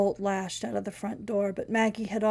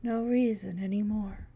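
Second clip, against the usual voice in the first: strange breathy voice. Acted. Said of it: "in a strange, breathy voice".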